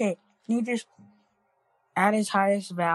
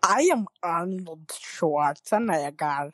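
Arnold impression. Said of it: "That sounds like a dead ringer".

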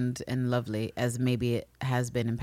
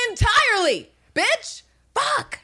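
much higher, louder snap; mock outburst; 6 dB louder, slower than usual. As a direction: bite it off in disgust. Voicing Anne snapping at Mariana.

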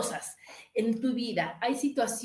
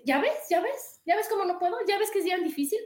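higher, plaintive mock protest; whiny mock complaint; 6 semitones higher than usual. Mocking the daughter who complains about her mother, whiny. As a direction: whine it like a child proving a point.

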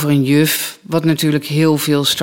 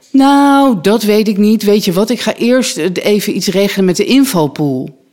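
lightly voiced director; 5 semitones higher than usual. Voices director fobbing off the knight.

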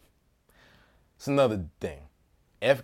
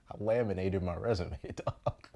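laughing through the words; 4 semitones lower, 6 dB quieter than usual. Real, not acted. Retelling the laminated resume, laughing. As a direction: chuckle at your own move. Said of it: "You know, I laminated my resume".

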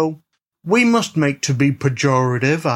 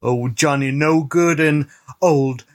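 a lightly put-on old-West saloonkeeper; saloon owner cowboy. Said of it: "the voice Youth is doing".

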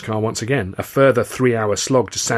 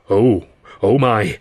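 slow, louder gasp of dismay; panicked dismay; 5 dB louder, slower than usual. A narrator's reading. Guard fears a child is under the train, panicked dismay. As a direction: draw it out in mild panic. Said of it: "a look of panic on his busybody face".

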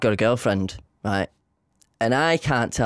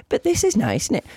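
higher, stubbornly dreamy; mock girlfriend; 9 semitones higher than usual. Teasing his girlfriend who ignores the item she wanted, higher. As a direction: keep admiring it. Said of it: "And I'm like".

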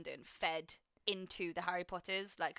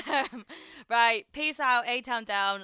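laughing; 3 semitones higher, 10 dB louder, slower than usual. Real, not acted. Laughing goodbye.

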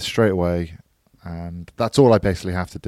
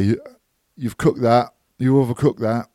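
light mock northern accent, teasing; a hint of a northern heckler; 3 semitones higher than usual. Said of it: "I just fancy them putting that voice".

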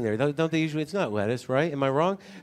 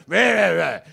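higher wordless mock grumbling protest; mimicked chef's tone; 5 semitones higher, 5 dB louder, slower than usual. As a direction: imitate the chef protesting in nonsense syllables. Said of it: "the tone I heard".

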